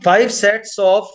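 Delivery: slow, measured repeat for note-takers; slow dictation. Real, not acted. Teacher answering a student's check on five sets, slow dictation. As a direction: repeat it slowly for someone writing.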